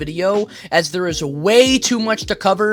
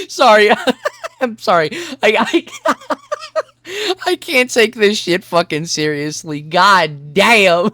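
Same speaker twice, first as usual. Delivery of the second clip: breaking into helpless laughter, high giggles between words; can't keep a straight face, laughing through the apology; giggling apology, losing it; real laughing fit; 5 semitones higher, slower than usual. Real, not acted. Cracks up reading threats.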